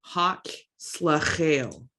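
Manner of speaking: "Hak slachel" said slowly, each sound drawn out; slow demo pronunciation. Shown as a demonstration. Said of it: "The difference between these words".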